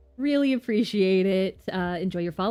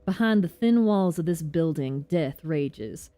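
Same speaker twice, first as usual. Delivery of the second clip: put-on southern accent. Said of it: "I gave Saburov a southern accent".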